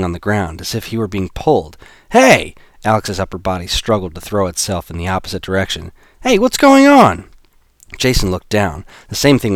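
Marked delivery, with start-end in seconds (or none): 2.1-2.6 high loud startled yell; alarmed shout. Acted. Pulled toward the machine. 6.2-7.3 high loud startled yell; alarmed shout. Acted. Pulled toward the machine.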